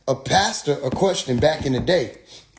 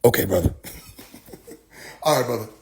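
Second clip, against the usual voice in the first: tag; 6 semitones lower, much faster than usual. Retold or imitated. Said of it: "And then I said".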